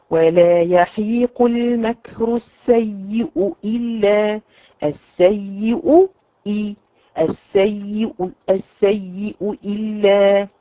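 السيء إلا chanted slowly, hamza then hamza; تلاوة بطيئة; slow recitation. Shown as a demonstration. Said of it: "الهمزات متتالية".

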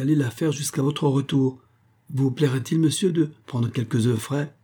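voix de servante plus aiguë, agitée; servante affolée. Acted. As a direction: une domestique qui s'excuse vite. La servante égarée. (la servante au docteur, affolée et plus aiguë)

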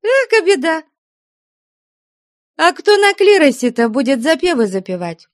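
put-on very high, taunting girl's voice; mock the nun cheekily. Girl mocks the nun.

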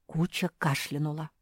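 usual speaking voice

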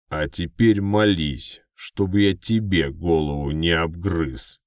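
slow, loud threatening orc. Acted.

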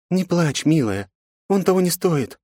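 high, gentle woman's voice; soothing woman. A narrator's reading. Aunt soothes the crying girl gently. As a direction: comfort a crying child.

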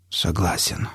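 low, soft, effortful assent; laboured speech. A narrator's reading. Failing patient agrees to the operation, low and laboured. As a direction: agree as if speech is getting harder. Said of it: "Говорить становилось всё труднее".

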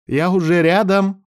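high, urgent cry; shouted call. A narrator's reading. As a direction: call out high to a friend in battle. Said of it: "прокричал Мелайдес".

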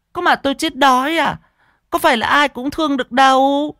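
very high, loud scornful shrew; sour, sharp-tongued. A narrator's reading. Fat woman rejects the seller's plea, sour and sharp-tongued. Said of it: "hứ một cái chua ngoa".

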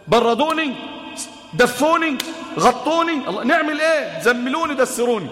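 frightened plea. Acted. The trembling Prophet begs his wife to cover him, frightened.

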